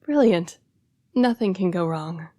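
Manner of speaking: mock the plan with false praise; sarcastic. Mocking the foolish plan.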